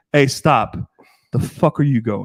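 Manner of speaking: teasing, playful fake aggression. Showing how they playfully confront someone on their sidewalk, playful mock aggression. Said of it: "I do a little more playful".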